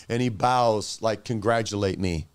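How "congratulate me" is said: lower, mildly sarcastic gloating; a touch of a smug villain taking a bow; sinister sarcasm. Acted. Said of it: "it's sarcastic and it's sinister".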